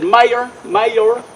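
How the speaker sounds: lightly imitating an older Southern lady, a bit slow; a gentle hint of Doris's Southern drawl, unhurried; Southern accent. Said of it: "there are very few people I can mimic".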